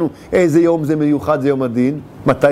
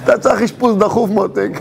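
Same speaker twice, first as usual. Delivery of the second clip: laughing reply; 3 semitones higher than usual. Retold or imitated. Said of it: "הוא יגיד לו".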